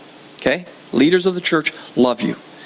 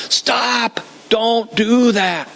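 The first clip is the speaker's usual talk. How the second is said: stern warning; 5 semitones higher, much slower than usual. Retold or imitated. Leader warning congregation, quoted.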